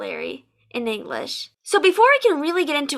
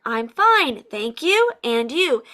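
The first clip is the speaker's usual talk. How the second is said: rote "I'm fine, thank you, and you?", "fine" falling, "thank you" rising, "and you" falling; mildly robotic "I'm fine, thank you, and you?" in set sing-song chunks; imitating robotic students; 3 semitones lower, slower than usual. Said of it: "robotic in that it was always said".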